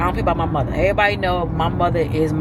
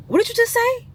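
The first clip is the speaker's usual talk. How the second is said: outraged disbelief. Retold or imitated. Outraged at aunt's remark.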